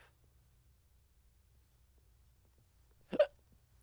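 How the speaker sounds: hiccup. Real, not acted. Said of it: "Still hiccuping".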